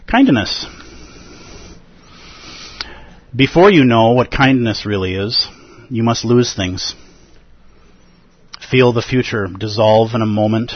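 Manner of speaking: measured, unhurried poetry reading; poem reading. Acted. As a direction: let each image land with pauses. Reads a poem aloud.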